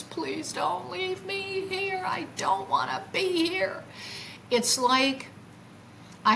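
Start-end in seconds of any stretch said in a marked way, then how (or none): 0.0-3.8 imitated tearful crying. Retelling how she begged the craft, tearfully pleading. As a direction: draw the plea out high, as if crying. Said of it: "now I'm literally crying with tears".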